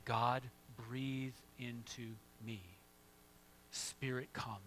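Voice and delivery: soft, slow whispered-down plea to God; hushed prayer. Shown as a demonstration. Pastor models a quiet prayer for the congregation, hushed. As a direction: pray it quietly, almost under the breath. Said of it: "and say".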